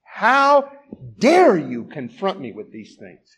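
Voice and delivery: mock scolding command; stern rebuke. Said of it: "He could have said to her".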